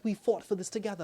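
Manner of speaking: high-pitched retold protest; imitated protesting woman. Woman confronts him over the scarab, imitated protest.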